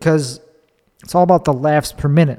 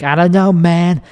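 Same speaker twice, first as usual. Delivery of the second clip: put-on lightly heightened Chicago accent, raised pitch; 3 semitones higher than usual. Comic answering the teasing hosts, mildly exaggerated Chicago accent. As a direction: lean a little into the Chicago accent. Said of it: "What is with your accent?".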